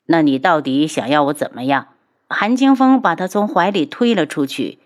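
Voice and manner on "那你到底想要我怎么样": exasperated reply. Acted. Worn-down husband answers the tirade.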